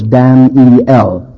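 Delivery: DAN-E-L in three separate syllables. Shown as a demonstration. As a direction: break DAN-E-L into three clear beats. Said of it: "has three syllables".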